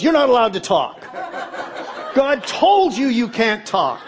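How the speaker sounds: hint of a bossy wife; mock scolding wife. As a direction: mimic her telling him off.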